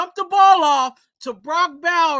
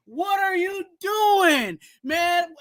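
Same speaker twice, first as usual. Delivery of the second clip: exasperated shout; 4 semitones higher, slower than usual. Real, not acted. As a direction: demand an answer from the player. Ranting at the quarterback.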